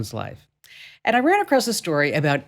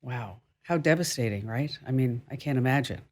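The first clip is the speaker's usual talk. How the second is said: soft and much quieter, stunned by the news; hushed sympathy; 4 semitones lower, 6 dB quieter than usual. Real, not acted. Host quietly sympathizing with the guest's injury, hushed and soft. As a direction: let the sad news land, gently.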